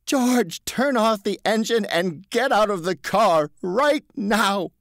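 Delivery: high, slow stern instruction; a hint of an angry salesman; firm stern Marvin. A narrator's reading. Marvin taking charge.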